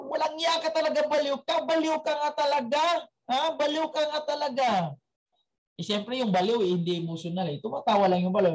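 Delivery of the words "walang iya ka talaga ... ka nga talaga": angry doctor. Acted. Angry doctor scolds the madman.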